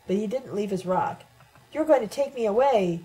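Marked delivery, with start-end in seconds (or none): 1.7-3.0 higher and a bit louder, eager hope; as if longing to be taken away; hopeful. A narrator's reading. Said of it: "He sounded hopeful when he said it".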